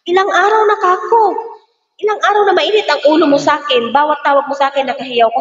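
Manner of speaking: retold confrontation. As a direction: confront the boss about her temper. Maid confronting employer, retold.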